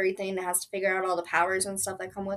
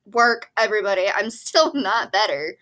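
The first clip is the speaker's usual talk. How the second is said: louder, fed-up complaint to everyone; exasperated; 6 dB louder than usual. Real, not acted. Sick vlogger telling everybody she's still ill, exasperated. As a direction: vent that you're still not well.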